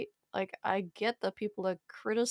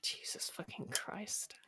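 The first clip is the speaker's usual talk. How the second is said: whispered swearing; 10 dB quieter, slower than usual. Real, not acted. Exasperated after doing the voice.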